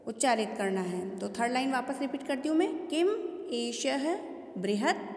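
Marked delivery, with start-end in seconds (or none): 2.9-5.0 "किम एषः बृहत्" word by word, light bare m and t, ha after "एषः"; light halant endings. Shown as a demonstration. Teacher repeats the third line, halant lightly sounded. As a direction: read "बृहत्" ending on a soft t with no vowel. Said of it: "हल्का pressure देते हुए इसको".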